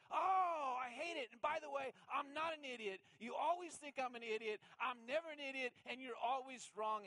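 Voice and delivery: loud, high-pitched hammed-up protest; mock outraged husband arguing back; exasperated retort. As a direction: burst out defensively, as in a marital spat. Acts out his retort to wife.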